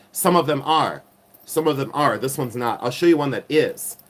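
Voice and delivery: emphatic, insistent lecture; lecturing, mild yelling. Real, not acted. Host warning sellers about glass turquoise, lecturing. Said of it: "Why am I yelling and why am I lecturing people?".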